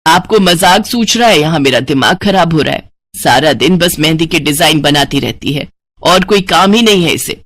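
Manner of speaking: acted aggrieved complaint, mostly low; complaining wife. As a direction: grumble to your husband about the daughter. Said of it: "Hina की शिकायतें कर ही रही थी". (शिकायत करती पत्नी)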